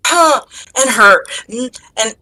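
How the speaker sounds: flustered, stammering denial that falls apart; losing the ability to speak; tongue-tied. Acted. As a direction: stumble and stall, lovestruck. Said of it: "lose your ability to speak".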